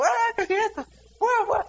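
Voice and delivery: grito de juego. Retold or imitated. Niños jugando bruto en el cuarto.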